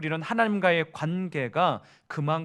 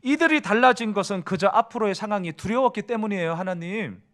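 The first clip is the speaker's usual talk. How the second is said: higher, louder indignant protest to God; Jonah arguing; 3 semitones higher, 4 dB louder than usual. Acted. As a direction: argue with God that his mercy is wrong. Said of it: "다시 한번 바꿔볼게요". (요나가 하나님께 높고 크게 따지며 항의)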